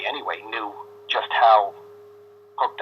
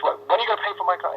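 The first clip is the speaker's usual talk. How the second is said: agitated father; 8 semitones higher, much faster than usual. Retold or imitated. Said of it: "a little more agitated this time".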